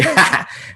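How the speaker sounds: short breathy laugh, high; a sheepish laugh after running over time; quick giggle of apology; embarrassed laugh. Real, not acted.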